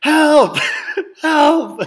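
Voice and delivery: high, loud mock cries for help, cracking into a laugh; hammed-up panicked yell; mock screaming. Avery chasing his friends, mock screaming for help. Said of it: "just screaming".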